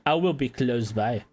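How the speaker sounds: lightly put-on French accent; game guide with a hint of French. Ratau guiding the chosen vessel to safety, light French accent. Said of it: "like, a French accent".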